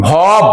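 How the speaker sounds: "ভব" alone as one closed syllable, bhob; sounded-out syllable. Shown as a demonstration. Teacher shows how the syllable is pronounced, sounded out alone. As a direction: sound out "ভব" on its own, ending on the b. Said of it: "উচ্চারণে".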